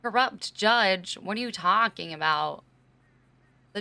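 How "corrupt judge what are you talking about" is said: incredulous. Real, not acted. Incredulous reply to chat.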